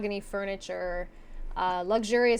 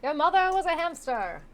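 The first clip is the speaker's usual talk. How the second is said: renaissance fair olde speech; 8 semitones higher, 4 dB louder than usual. Pretend. Mock crier insults.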